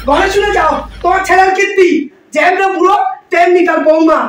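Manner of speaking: shouting across the house at her husband; angry yell. Acted. Mother-in-law yelling for husband. (রাগে চিৎকার করে ডাকা)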